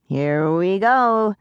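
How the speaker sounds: a tiny pixie bracing itself. A narrator's reading. Pixie Jenks voice.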